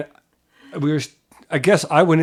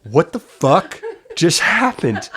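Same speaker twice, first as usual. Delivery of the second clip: slow words through laughter; laughing; 3 semitones higher, slower than usual. Retold or imitated. Friend in the car, laughing after the scare. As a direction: laugh your way through the line. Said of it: "he started laughing uncontrollably".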